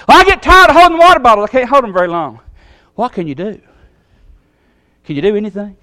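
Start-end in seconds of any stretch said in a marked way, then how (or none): 0.1-2.4 put-on whiny kid. Kid's excuse to coach.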